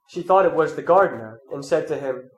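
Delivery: measured, solemn Gospel reading; scripture reading. Acted. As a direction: read the Gospel to the congregation. Reads the Gospel aloud.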